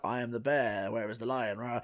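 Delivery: lightly voiced low cartoon bear; low, understated imitation of a creepy bear; a hint of a bear, token roar at the end; mock bear. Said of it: "then a bear comes out".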